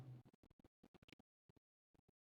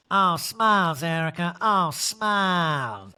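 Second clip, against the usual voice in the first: self-coaching voice; 4 semitones higher, 3 dB louder, much slower than usual. Retold or imitated. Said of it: "saying to herself".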